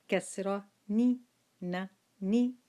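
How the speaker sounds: ني said clearly with a long i; syllable drill. Shown as a demonstration. Teacher to students, showing the kasra: ني. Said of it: "We say".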